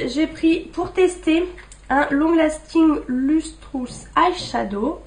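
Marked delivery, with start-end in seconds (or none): 2.1-5.0 slow English product name with a French accent. Real, not acted. Vlogger reading an English product name to viewers, French accent. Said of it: "Excusez pour mon accent".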